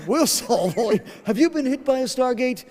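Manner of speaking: mock ad voice. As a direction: spoof a cheesy legal ad. Mock law firm commercial.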